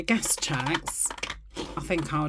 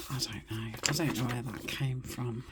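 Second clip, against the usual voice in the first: bemused whisper; 4 semitones lower, 7 dB quieter than usual. Real, not acted. Amused at her own slip.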